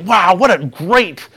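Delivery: acting out a thrilled golfer; pumped. Golfer celebrating his first-hole birdie, pumped. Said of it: "So he is just pumped".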